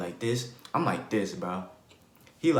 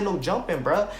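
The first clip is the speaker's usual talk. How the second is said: firm call; 5 semitones higher than usual. Retold or imitated. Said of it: "I said".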